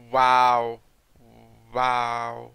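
a burst of loud amazement; loud amazed wow. Real, not acted. Player sees an onyx on the ground, loud amazed wow. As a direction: blurt it out, stunned by the drop.

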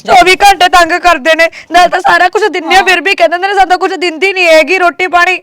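tearful complaint. Acted. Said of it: "ਰੋ ਕੇ ਗੱਲ ਨਹੀਂ ਕਰੀਦੀ ਹੁੰਦੀ".

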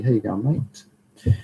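slow, drawn-out Australian greeting; broad Aussie accent. Pretend. Greeting a chat viewer on request in a broad, slow Australian accent. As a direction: lay the Australian accent on thick, slowly. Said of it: "Say the Aussie".

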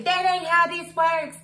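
high, mocking Karen impression. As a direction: parrot her catchphrase in a sassy high voice. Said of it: "how many times you gonna say".

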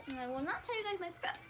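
speaking through hiccups. Real, not acted. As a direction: cut off by a hiccup. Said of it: "sorry I keep hiccuping".

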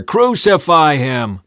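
loud, slow, drawn-out shout; mob roar. A narrator's reading. Mob roaring back at Pilate, drawn-out roar. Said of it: "the mob roared even louder".

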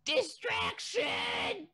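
very high, very slow drawn-out shout; stupid voice. Pretend. Host trying a stupid jingle voice for the podcast edit, very high slow shout. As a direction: stretch it out like a silly cartoon announcer. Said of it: "I need to fucking find a voice".

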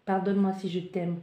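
"Pardonne-moi si je t'aime" repeated softly. Shown as a demonstration. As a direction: drop the voice on the repeat. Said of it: "Et j'entends ici".

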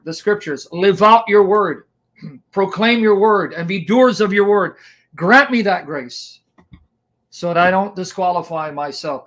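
steady earnest prayer voice. Acted. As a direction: lead the group in prayer. Leads a long prayer.

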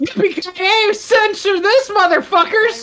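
yelling catchphrase. Pretend. Quoting action catchphrase, yelling.

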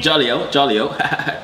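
slow, hammed-up English accent; put-on English accent. Showing off for amused callers, put-on English accent. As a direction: drag out a mock English accent. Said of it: "trying to do an English accent".

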